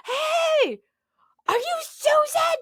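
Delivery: very high, loud excited call; imitated shouting. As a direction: holler it like a stranger spotting someone. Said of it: "people just shouting in your general direction".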